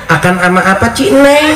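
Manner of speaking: put-on "Akan" said without its m, childish and high; lisping baby talk. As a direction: coo "Ci, Neng" high like a toddler. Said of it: "cadelin sama kita".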